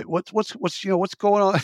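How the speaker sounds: imitated stutter. Flustered boss questioning a young employee about lamps, stuttering.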